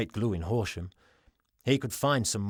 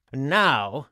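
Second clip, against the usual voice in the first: calling out; 5 dB louder than usual. Acted. Giffen addresses cheering crowd.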